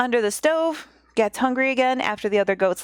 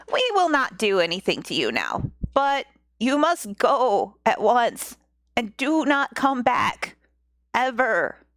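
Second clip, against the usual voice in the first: lightly voiced stern goats. Goats warning the old woman to leave, mildly stern.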